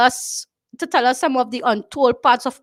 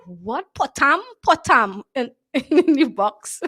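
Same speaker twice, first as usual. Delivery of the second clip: laughing disbelief; slower than usual. Retold or imitated. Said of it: "I be like".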